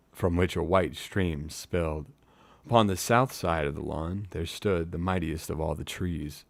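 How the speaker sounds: measured storyteller's reading with pauses; story narration. A narrator's reading. Reading a fantasy novel to live listeners, measured narration. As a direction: read it like an audiobook.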